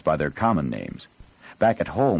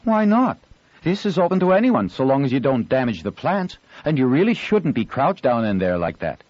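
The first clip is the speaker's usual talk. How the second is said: indignant; 8 semitones higher, 4 dB louder than usual. Acted. Girl scolds hidden boy.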